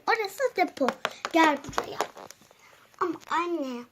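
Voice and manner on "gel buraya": whispered command; stern whisper. Acted. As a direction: hush her over here. Mother hisses at hiding child.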